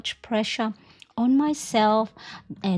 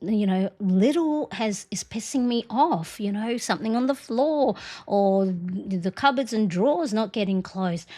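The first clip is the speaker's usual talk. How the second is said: irritated self-questioning. Retold or imitated. Mom questioning her own crankiness, mildly irritated. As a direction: ask yourself why you're so short-tempered. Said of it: "like I'll go".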